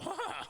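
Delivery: sudden high-pitched startled gasp. Retold or imitated. Camper caught by the flashlight, startled high gasp. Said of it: "and I go".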